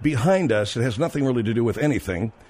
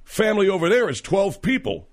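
quoting the bar guy; 7 semitones higher than usual. Retold or imitated. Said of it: "the guy next to me says".

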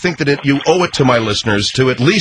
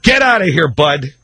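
shout; 2 semitones higher than usual. Real, not acted. Host bursts out.

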